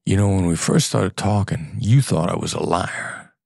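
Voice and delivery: scornful, looking down on them; contemptuous. Shown as a demonstration. To a client who doubted him, contemptuous. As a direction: say it like you think they're an idiot. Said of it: "And my tone of voice is, "You dumb M F er".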